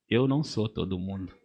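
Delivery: low and soft, almost to himself; quiet declaration. Shown as a demonstration. Pastor first saying it quietly before the church repeats it, low and soft.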